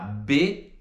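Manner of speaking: "bit" cut off at the t; unreleased final T. Shown as a demonstration. Teacher shows bit without its last T, stopped short. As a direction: stop B with the tongue on the palate. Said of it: "vai colocar a língua no céu da boca".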